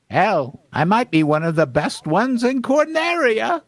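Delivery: bragging coyote, climbing high; cartoon swagger rising to the end; Wile E. Coyote. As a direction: let the pitch soar on the boast. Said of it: "I'm gonna be like the Wi-, Wile E. Coyote voice".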